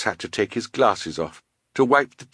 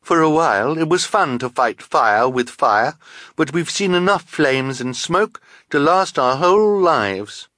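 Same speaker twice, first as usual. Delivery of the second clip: higher, louder character voice; emphatic, raised-pitch protest; protesting henchwoman; 5 semitones higher, 4 dB louder than usual. A narrator's reading. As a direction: speak up against the boss. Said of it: "said the first woman".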